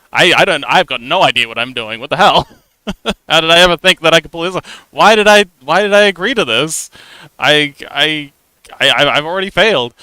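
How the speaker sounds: panicked imposter voice. Retold or imitated. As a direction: play the panicking inner critic convinced they're a hack. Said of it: "you construct this alternate reality in your head".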